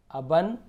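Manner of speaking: "अबन" as a separate chunk; syllable demo. Shown as a demonstration. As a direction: sound out "अबन" slowly, short a in both syllables. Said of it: "इसे हम अबन पढ़ेंगे".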